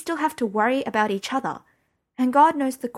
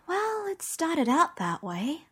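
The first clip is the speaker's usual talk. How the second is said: slow sighing reply, pitched up; 9 semitones higher, 3 dB quieter, slower than usual. A narrator's reading. Mother answering her daughter's worried question with a sigh. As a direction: let the breath out tiredly as you answer. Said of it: "Mum sighed".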